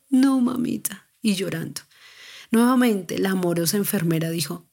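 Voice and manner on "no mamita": retold child's cry, stronger. Daughter in pain begging mom, higher mock cry. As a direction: echo the plea a touch more urgently. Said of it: "me gritaba".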